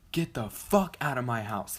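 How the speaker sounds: retold scream. Angry sister ordering skaters out of the house, mild mock scream. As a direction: imitate her screaming without a full scream. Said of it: "like, screaming at us".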